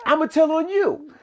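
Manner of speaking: put-on high kid's voice threatening to tell; child tattling. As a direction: play the little boy telling on his sister. Voicing the child in story.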